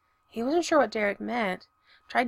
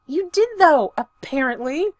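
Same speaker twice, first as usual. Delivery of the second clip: high, loud shrill retort; 7 semitones higher, 8 dB louder than usual. A narrator's reading. Stiles snapping back at Derek, high and loud. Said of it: "said Stiles shrilly".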